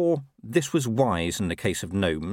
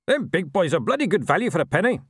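high, sly little gnome; cheeky gnome with a grin; 8 semitones higher, 3 dB louder, faster than usual. A narrator's reading. Gnome voiced in story.

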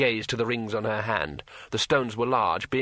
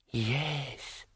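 telepathic dragon voice; 7 dB quieter than usual. Acted. Dragon answers.

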